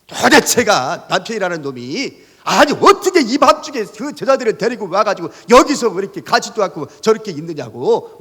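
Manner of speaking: a hint of a shrill scolding wife; mock wife's yelling. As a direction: play the fed-up wife berating him before his students, not full out. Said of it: "막 소리를 버럭버럭 질렀어요".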